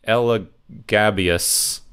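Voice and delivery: "Elagabius" sounded out slowly, piece by piece; slow, careful attempt at the unfamiliar name "Elagabius"; tentative pronunciation. Real, not acted. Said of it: "not gonna be able to pronounce this name".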